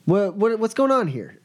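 high, stammering disbelief; acted bewildered outrage. Boss walks into his trashed room, stammering disbelief. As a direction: stumble into a shocked, high-pitched accusation.

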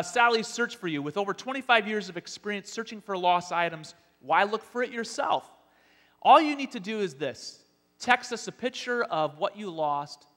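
upbeat sales pitch; ad announcer. Acted. Spoof ad read.

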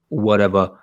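lightly voiced suave spy, barely changed; James Bond impression. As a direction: toss it off like a cocky James Bond. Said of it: "That's my James Bond impression".

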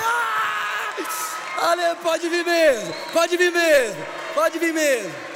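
full-force high preacher's yell; drawn-out roaring cry of celebration; exultant shout. Retold or imitated. Preacher shouting joyful welcome to all.

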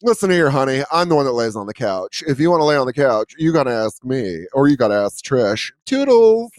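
lightly voiced sassy old man; a hint of a diva laying down rules; sassy old dog. Old dog bossing owner about couch, lightly sassy. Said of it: "this old gay man".

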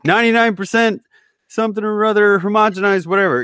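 mock label reading. Mocking milk carton label claims.

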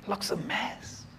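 whispered, slow looks a mess; hushed deflated admission; quiet despair. Acted. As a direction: let it sink, barely voiced. Voicing a believer's complaint.

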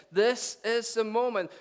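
high, loud, slow and emphatic; climactic proclamation. Acted. Preacher voicing Jesus to the crowd, proclaiming. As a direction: proclaim each word to a huge crowd.

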